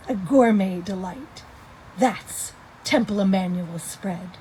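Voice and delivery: reading a jingle poem aloud; poem recitation. Acted. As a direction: recite it like a light rhyming verse. Reads her poem aloud.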